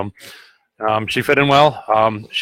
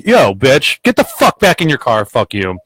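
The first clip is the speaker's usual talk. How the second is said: retold angry retort; 3 semitones higher than usual. Plow driver to the woman poking at him, retold angry retort. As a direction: re-enact telling off an aggressive driver. Retold roadside shouting match.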